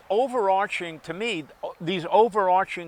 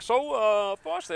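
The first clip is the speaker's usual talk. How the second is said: radio voice; 4 semitones higher than usual. Pretend. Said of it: "I could do my radio voice".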